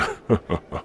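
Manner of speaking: short villainous chuckle; brief gloating laugh; scornful chuckle. Acted. Chief scoffs at the outsider.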